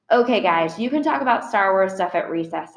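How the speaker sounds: bright, friendly teacher redirect; cheerful nudge back to the lesson; cheerfully. Acted. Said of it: "said Miss Petosa cheerfully".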